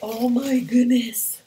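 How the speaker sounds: loud, slow, drawn-out amazement; awed gasp. Real, not acted. Seeing the present for the first time, awed. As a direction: let the wonder spill out.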